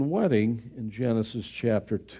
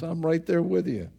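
usual speaking voice

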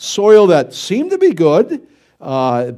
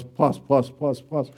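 usual speaking voice

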